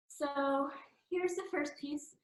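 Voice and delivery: slightly winded, catching breath; talking while still out of breath. Real, not acted. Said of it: "Sorry, I'm a little out of breath".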